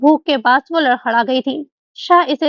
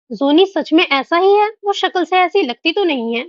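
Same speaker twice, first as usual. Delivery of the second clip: astonished; 4 semitones higher than usual. Acted. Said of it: "हरम मुतहैयर सी बोली थी".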